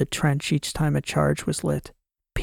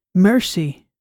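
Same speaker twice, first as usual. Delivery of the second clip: shouting; 4 semitones higher, 5 dB louder than usual. Acted. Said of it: "I shouted".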